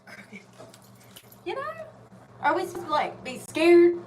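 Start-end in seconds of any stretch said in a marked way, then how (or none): 2.9-4.0 mock monster roar. Shown as a demonstration. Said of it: "like, rawr".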